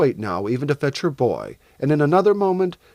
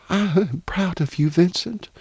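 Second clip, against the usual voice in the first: higher-pitched, heartfelt mother; proud mother; 5 semitones higher than usual. Acted. Mother praises her son after his story, heartfelt pride. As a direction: praise him with earnest pride.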